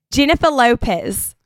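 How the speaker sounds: lightly put-on Aussie accent; Australian accent. Shown as a demonstration. Showing off the only two Australian-accent words she has. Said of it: "two words in an Australian accent".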